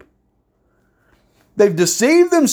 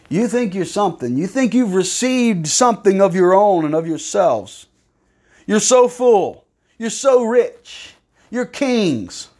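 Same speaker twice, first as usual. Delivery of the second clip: sarcastic; 3 semitones higher than usual. Acted. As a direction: needle them with false flattery. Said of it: "He's being sarcastic".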